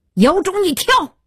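shrill, high-pitched dare; angry taunt leaping up high; piercingly shrill. A narrator's reading. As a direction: goad with a sharp, piercing voice. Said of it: "尖锐到刺耳".

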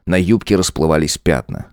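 plain reading voice

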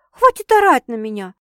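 loud, fed-up retort; angry protest. A narrator's reading. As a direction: push back loudly. Snapping back at yelling sister. (сердито, громко)

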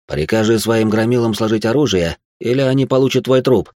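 terse, rising threat at the end; quick command. Acted. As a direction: order him, blade at the throat. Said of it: "быстро приказал".

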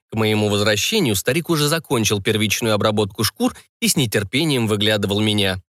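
plain reading voice

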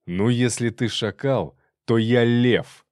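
slow threat swelling to loud; slow, growing menace; menacing retort. Acted. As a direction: draw it out, landing loudly on the boast. Menacing retort while beating robber.

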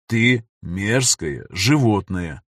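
slow, hissed through teeth; through gritted teeth. Acted. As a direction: grind it out in contempt. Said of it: "сквозь зубы произнёс бородач".

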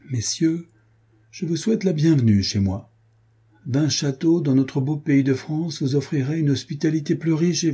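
a lightly voiced noble host raising a toast; hospitable old count. Old count welcomes guest.

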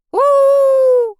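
very high, loud drawn-out howl; loud wolf howl; werewolf howl. A narrator's reading. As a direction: howl at the moon along with the bard. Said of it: "раздалось".

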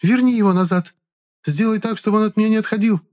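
high, loud woman's voice blurting in anger; angry blurting. A narrator's reading. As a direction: spit out the accusation. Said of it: "зло выпалила Клара".

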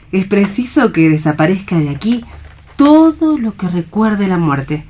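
stage Alicia comforting a despairing man; Alicia, hopeful and tender. Acted. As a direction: speak of spring as a promise. Alicia speaks of spring and hope.

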